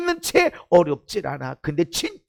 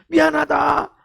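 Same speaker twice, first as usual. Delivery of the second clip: tearful apology; 2 semitones higher, 3 dB louder, slower than usual. Retold or imitated. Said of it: "막 자기도 모르게 눈물이 나면서".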